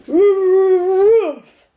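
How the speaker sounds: high, loud barked word; dog's bark. A narrator's reading. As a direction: bark it out like a watchdog. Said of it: "exclaimed the watchdog as he dashed up".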